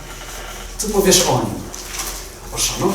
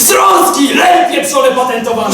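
angry shout; 8 semitones higher than usual. Acted. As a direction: yell abuse across the room. Acted quarrel, insults hurled. (wściekły krzyk)

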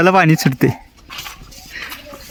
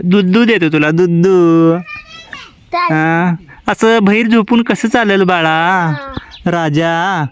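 coaxing pet; 3 semitones higher, much slower than usual. Real, not acted. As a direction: owner gently scolding his pet for sleeping outside, slow and fond. Coaxing pet baby-style.

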